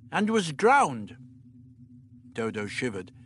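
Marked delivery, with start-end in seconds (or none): 0.1-1.2 put-on slow grave old man voice; slowed and solemn, Doctor's voice. A narrator's reading. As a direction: let it land slowly.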